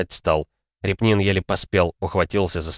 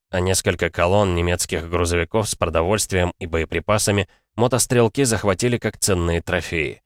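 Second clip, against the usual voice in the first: ordinary talk, nothing marked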